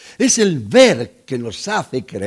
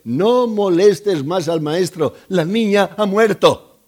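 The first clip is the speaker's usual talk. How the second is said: loud, raised-pitch messenger's proclamation; emphatic announcement; 4 semitones higher, 4 dB louder than usual. Acted. Messengers telling the father his girl is dead, emphatic announcement. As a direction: deliver the bad news forcefully, climbing louder at the end.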